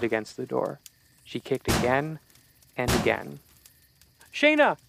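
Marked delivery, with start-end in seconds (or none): 4.3-4.8 panicked scream. Acted. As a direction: shriek her name in terror. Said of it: "Casey screamed".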